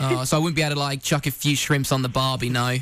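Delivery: hammed-up Australian slang accent. Prank caller pressing about barbecues, put-on Australian accent. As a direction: play the stereotype Australian guest. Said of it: "doing my Australian accent".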